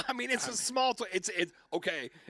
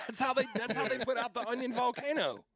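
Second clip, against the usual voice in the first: high, laughing through the words; talking while laughing; 9 semitones higher than usual. Real, not acted. Laughing while explaining the joke.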